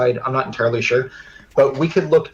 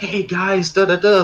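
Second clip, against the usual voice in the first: mock pumped-up salesman voice, high and drawn out; 7 semitones higher than usual. Retelling a recorded answering machine message: imitating an energetic sales pitch. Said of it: "like this real energetic thing".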